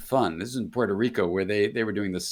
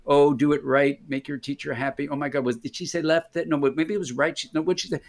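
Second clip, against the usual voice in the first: higher-pitched, mock flustered worrying; second-guess yourself in a higher, fussing voice; fretting inner critic; 4 semitones higher than usual. Left brain fussing over the dance teacher's steps, mock flustered. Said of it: "my left brain gets involved and says".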